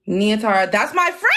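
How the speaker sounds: thrilled to spot a friend; excited shout. Real, not acted. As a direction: shout the name with delight. Sees friend in email.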